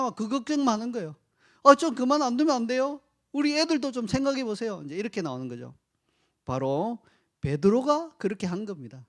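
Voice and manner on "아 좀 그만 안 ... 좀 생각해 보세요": wife begging. Retold or imitated. Wife begging her husband to think of the kids, higher pleading. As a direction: press him harder, a worried wife's plea.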